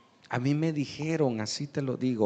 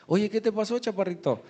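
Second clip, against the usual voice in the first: higher-pitched, surprised questioning; puzzled boss; 7 semitones higher, faster than usual. Acted. Boss asks his changed worker what happened, puzzled. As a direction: play the boss taken aback by his worker.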